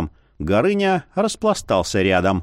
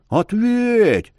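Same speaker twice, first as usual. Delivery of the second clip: shout; 10 semitones higher than usual. A narrator's reading. Young man shouting after the leaving man. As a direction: yell it at his back. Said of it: "крикнул Горыня в спину".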